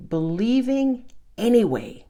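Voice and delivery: breathy, intense whisper. Real, not acted. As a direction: whisper it like a secret. Whispered emphasis.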